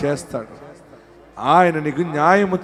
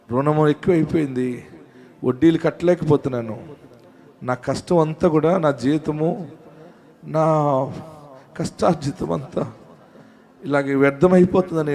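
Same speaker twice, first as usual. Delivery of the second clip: imitated tearful lament. Preacher voicing a believer drowning in debt, mildly tearful. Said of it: "ఏడుస్తున్నావా?".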